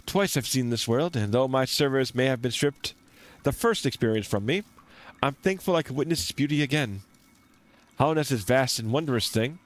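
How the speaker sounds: lightly voiced wistful wanderer; a touch of theatrical game-character reading; reflective traveller. Traveller greeting his short friend, lightly voiced and reflective.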